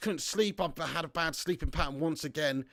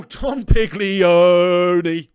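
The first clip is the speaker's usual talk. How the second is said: mock mafia don; 14 dB louder, much slower than usual. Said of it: "Chronic Math says".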